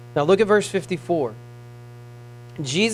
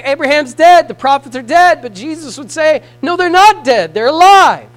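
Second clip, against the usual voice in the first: high, loud proclamation; preached quote; 7 semitones higher, 9 dB louder than usual. Acted. Preacher voicing Jesus answering critics, loud and high. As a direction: fling the words out.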